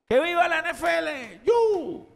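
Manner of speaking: high-pitched mock cheer; vítores fingidos. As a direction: hurrah like a devoted fan. (viva festivo y agudo)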